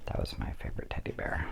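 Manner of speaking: soft whispered confidence; hushed fond memory; whispered aside. Real, not acted. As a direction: share it like a fond secret.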